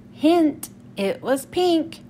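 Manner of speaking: expressive, unhurried picture-book narration; children's story reading. Acted. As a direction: read it aloud to young children, acting out the lines.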